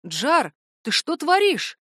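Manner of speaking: can't believe what he's seeing; bewildered. A narrator's reading. Valt to his cousin Jar, bewildered. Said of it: "недоумевающий Вальт".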